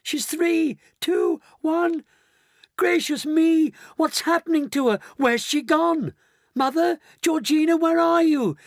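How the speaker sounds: very high, loud panic; crying out. A narrator's reading. Daughter calling Mister Wonka as mother vanishes, panicked. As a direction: cry frantically for help, high-pitched. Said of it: "Missus Bucket cried out".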